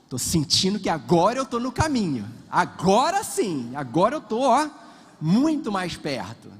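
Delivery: keen mock-hopeful gambler voice; eager gambler. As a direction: sell it like a gambler who thinks luck has turned. Gambler sure he's close now.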